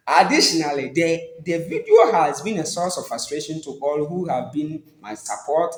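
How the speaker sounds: measured, formal public-apology reading; formal statement read. Acted. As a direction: read it like an official press statement.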